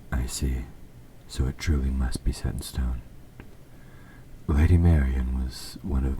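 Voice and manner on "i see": a resigned sigh, then a hushed word; sighing whisper. Acted. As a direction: let the disappointment out in a whisper. King hears his destined bride.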